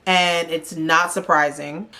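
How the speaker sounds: slow, drawn-out announcement; dramatic reveal. Real, not acted. Host revealing who goes to elimination, slow and dramatic. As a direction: stretch every word for drama.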